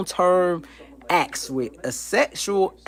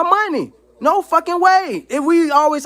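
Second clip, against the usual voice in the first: furious outburst; 10 semitones higher, 3 dB louder than usual. Real, not acted. Ranting to the camera, loud high outraged refusal. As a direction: drag out each word in disbelief. Angry peak of rant.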